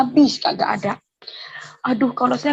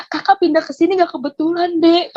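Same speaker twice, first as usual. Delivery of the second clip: higher-pitched, earnest persuasion; imitated firm assurance; 5 semitones higher than usual. Neighbour assuring her the move was meant, high imitated voice. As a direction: reassure in a raised, retold voice. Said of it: "dia meyakini saya".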